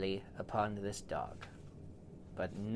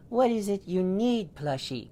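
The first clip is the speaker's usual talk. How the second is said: high, loud sing-song; high fussing owner voice; doting family voice; 11 semitones higher, 7 dB louder than usual. Acted. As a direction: coo at the pet with concern. Family asks the dog.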